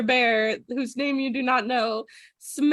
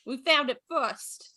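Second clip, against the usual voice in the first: sidekick bear voice; 5 semitones higher than usual. Acted. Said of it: "He goes".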